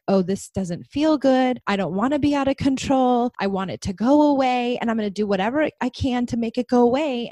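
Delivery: put-on insistent, as a child resisting a feeling; scared child. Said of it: "they tend to be scared of their feelings".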